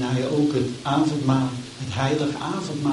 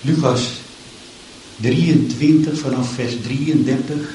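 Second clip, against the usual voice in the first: solemn, measured Bible reading; scripture reading. Acted. Preacher reading the crucifixion to the church, solemn. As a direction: read the passage with gravity. Reads Luke 23 aloud.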